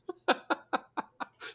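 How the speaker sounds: airy giggle; high breathy laugh. Real, not acted. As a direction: giggle silently. Laughs at the wiki quote.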